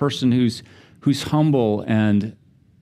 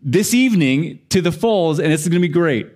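excited; 5 semitones higher than usual. Retold or imitated. Excited plans for the falls.

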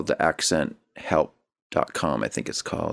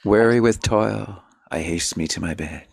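sonnet recitation. Shown as a demonstration. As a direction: recite it as verse, easing down at the end.

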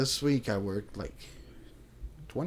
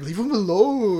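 higher, slow scolding mimic; mock scold, higher and slow; imitating Jocelyn; 7 semitones higher, slower than usual. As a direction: slowly mimic a protective friend. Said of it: "Jocelyn was always like".

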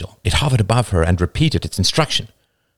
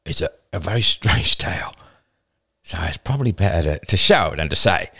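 hesitant, lower-pitched answer; slow reply; 4 semitones lower than usual. A narrator's reading. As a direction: feel your way through it, haltingly. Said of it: "replied Roman slowly".

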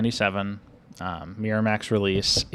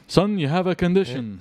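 higher-pitched mock movie line; Harry Dean Stanton; 8 semitones higher, 3 dB louder than usual. Host quoting a cameo from The Avengers, mock character voice. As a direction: deliver it as a put-on character voice. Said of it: "all he does is just like".

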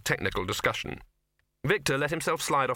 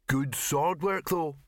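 appraising; 4 semitones higher, slower than usual. A narrator's reading. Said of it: "said Murray appraisingly".

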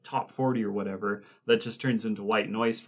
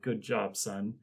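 quiet praise; 6 dB quieter, slower than usual. Retold or imitated. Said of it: "pats him on the back and he's like".

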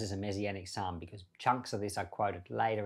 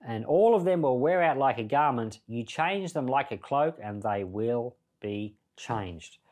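scripture quote; 4 dB louder than usual. Acted. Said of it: "It's talking about the heavens".

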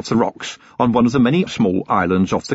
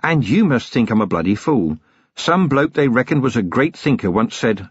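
lightly voiced weary copper, cold threat; a hint of a hard-bitten watchman; Vimes, grim and controlled. Vimes interrogating.

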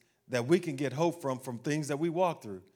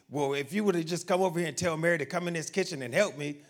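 mock scolding; faster than usual. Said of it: "she ran over and scolded".

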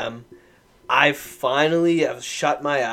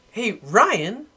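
put-on high, sing-song drunk buddy voice; Ricky; 7 semitones higher than usual. Drunk buddy comes over to the couch, high imitated voice. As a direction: imitate a drunk pal pestering a sleeper. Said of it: "he comes over to me on the couch and he goes".

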